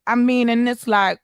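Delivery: ordinary talk, nothing marked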